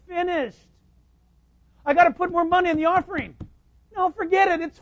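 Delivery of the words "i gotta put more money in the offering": mock worried believer. Mocking an anxious believer.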